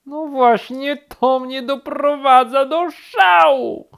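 high, loud, drawn-out final word; exasperated shout. A narrator's reading. Rabbit answers bear's objection, shouting exasperated. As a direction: yell it at wits' end. Rabbit rages back at bear.

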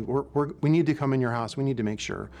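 steady and unhurried, lightly voiced; very calmly. Officer calming an angry large man at his door, mildly calm. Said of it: "she says to him very calmly".

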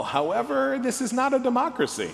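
mock fatherly lecture; dad voice. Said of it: "I will use the fucking dad voice".

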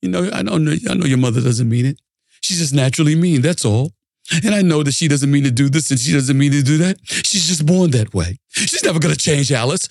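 measured, patient reasoning before an outburst; calm Ralph Kramden. Retold or imitated. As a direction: keep it calm and controlled. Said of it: "all calm".

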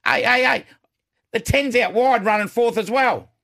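high, loud excited calling out. Real, not acted. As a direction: yell out as the bet lands. Watching bet finish live.

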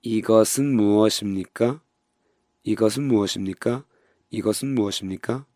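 이것은 무엇입니까 run fast as 이거슨 무어십니까; quick linked model, rising at the end; model phrase. Shown as a demonstration. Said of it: "これは何ですか?".

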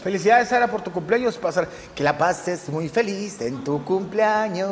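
put-on slow sing-song kids' host greeting; cheery party clown birthday wish; children's entertainer voice. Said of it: "Qué perturbador es la voz de animador infantil". (voz de animador infantil)

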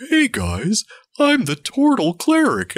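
high, slow squeaky cartoon turtle voice; lovable turtle cleric voice. Player voicing her beloved character, a high cute turtle. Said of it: "my character 'cause he was like".

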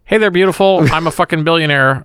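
sleazy pickup line voice; cheesy bar seducer; oily smooth seducer. Acted. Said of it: "it would go something like this".

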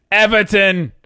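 loud, brighter echo of the team; excited echo. Acted. Cohost echoing each team name, loud and hyped. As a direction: hype the name back.

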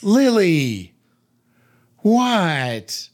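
high, loud calling of the dog's name; sharp call to the dog. Retold or imitated. Owner calling her dog from the next room, loud and high.

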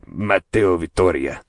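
put-on slow, rolled Latino accent on the name. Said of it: "the name that I always say all Latino".

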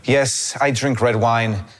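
measured, drawn-out foreign director impression; Werner Herzog. Director answering a wine invitation, in slow imitation. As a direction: answer slowly, imitating an older filmmaker. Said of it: "He's like".

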